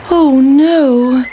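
a small cake facing the river in alarm; dismayed pancake. Acted. Pancake at the river cries out high and loud. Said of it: "said the pancake".

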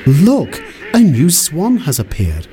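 high, bright call to the others; excited children calling. A narrator's reading. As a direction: call out in delight.

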